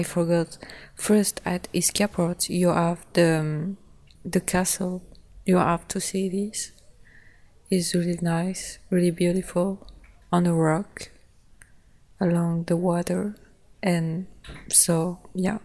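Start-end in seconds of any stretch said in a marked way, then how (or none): none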